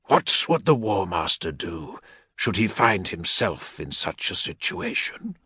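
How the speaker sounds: lightly voiced warlord's aide, measured threat; menacing equerry. Equerry rebuking a petitioner, lightly voiced menace. Malaghurst questions held man.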